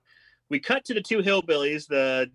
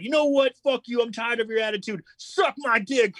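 mock angry outburst; 5 semitones higher than usual. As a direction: play the fed-up guy telling her off. Retold hillbilly outburst at woman.

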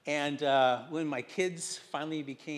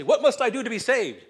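louder, higher hammed-up plea, laughing; Philippian jailer's plea; 7 semitones higher, 10 dB louder than usual. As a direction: ham up a desperate convert's cry. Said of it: "like the Philippian jailer and say".

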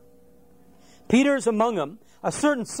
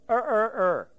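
quick mock cock-crow, barely raised; rooster crow. Imitates the cock crowing thrice.

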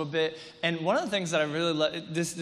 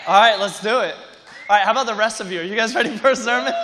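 loud, pumped-up call to the crowd; rousing shout; 2 semitones higher, 10 dB louder, faster than usual. Real, not acted. Pastor rallies the congregation before the sermon, shouting. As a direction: fire up the room.

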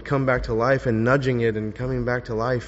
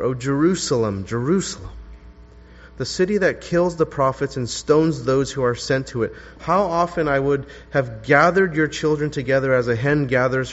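mournful reading. Shown as a demonstration. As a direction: grieve over the city as you read. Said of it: "this is how Luke expressed Jesus' lament".

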